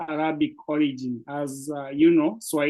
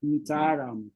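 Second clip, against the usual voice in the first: slow for learner; 3 dB quieter than usual. Shown as a demonstration. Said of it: "we take our sweet time and say".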